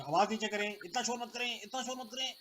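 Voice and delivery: teacher covering his deafness with a mild scolding; imitated scolding. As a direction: scold the class to hide that you can't hear. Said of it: "लड़कों को डांटना भी शुरू कर दिया".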